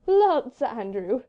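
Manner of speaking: merry lady. A narrator's reading. Marguerite hailing Sir Andrew, merrily amused. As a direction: call it out with light amusement. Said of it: "merry, infectious laughs".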